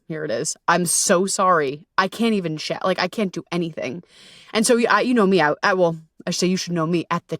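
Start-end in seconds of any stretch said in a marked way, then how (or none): 0.7-4.0 small, sorry, apologetic voice; meek apology. Retold or imitated. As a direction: shrink yourself down while apologizing. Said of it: "I was so apologetic".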